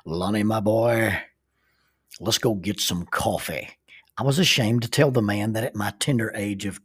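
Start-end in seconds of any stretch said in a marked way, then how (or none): 0.0-3.7 deep baritone. Retold or imitated. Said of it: "in his deep baritone voice".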